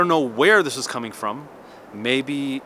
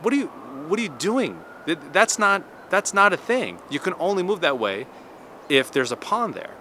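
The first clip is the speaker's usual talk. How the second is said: mock indignant protest; 5 semitones higher than usual. Retold protest at illegal move.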